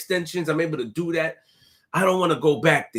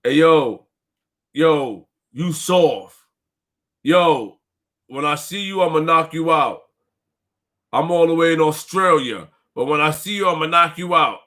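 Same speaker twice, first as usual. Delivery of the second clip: mocking online threat; 3 semitones lower than usual. Mimicking a stranger's online threat, low tough-guy voice. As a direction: talk tough like a keyboard gangster. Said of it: "people do blogs like this".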